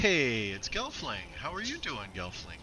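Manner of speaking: thrilled to see them arrive; excited greeting. Real, not acted. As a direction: greet a friend with a big lift in pitch.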